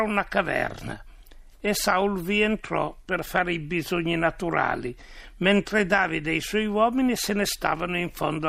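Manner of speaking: solemn, measured reading of a Bible story; scripture reading. A narrator's reading. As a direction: read it out as scripture, with clear phrases and pauses. Reads the Bible story aloud. (lettura solenne di un racconto biblico)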